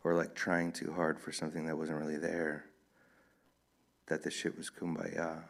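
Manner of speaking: measured book reading with lightly voiced dialogue; story narration. A narrator's reading. Author reads a novel to an audience, story narration. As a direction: read the novel aloud, evenly paced with distinct pauses.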